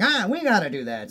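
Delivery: stagey mid-Atlantic movie voice; mid-Atlantic accent. Retold or imitated. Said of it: "I have the mid-Atlantic accent".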